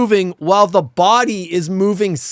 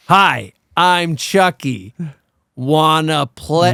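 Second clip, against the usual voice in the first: Brad Dourif; 2 semitones lower, slower than usual. Retold or imitated. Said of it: "in Brad Dourif's voice".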